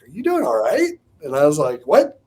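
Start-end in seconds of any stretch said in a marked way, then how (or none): 0.0-0.9 higher-pitched check-in; lightly imitated worried question; concerned wife. 1.9-2.2 loud, high startled "what"; jolted out of concentration. Retold or imitated. Caught off guard by wife.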